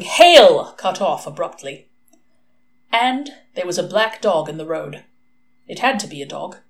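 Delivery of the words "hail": high, loud ringing shout; metal voices shouting. A narrator's reading. A thousand metal voices shouting as the hound arrives, high and loud. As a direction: bark it like a massed war cry. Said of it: "a thousand metal voices shouting".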